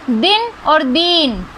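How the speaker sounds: दिन with a short i, दीन with a long stretched ee; short i then long ee. Shown as a demonstration. Teacher shows students दिन versus दीन, slow and deliberate. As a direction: contrast दिन and दीन slowly, vowel length clear. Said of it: "उसमें अंतर है ना".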